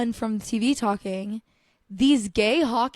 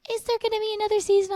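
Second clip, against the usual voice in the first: imitating Joe; 12 semitones higher, 4 dB louder, faster than usual. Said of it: "He's like".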